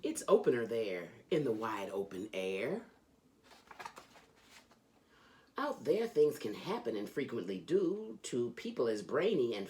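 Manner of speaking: lively, sing-song storybook reading; reading to children. A narrator's reading. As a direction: read it like a bedtime book for kids. Reads Dr. Seuss to children.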